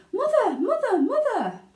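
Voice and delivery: put-on high, loud calling out of a boy; shouting for mother. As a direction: yell for mum as you burst in. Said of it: "burst through the front door shouting".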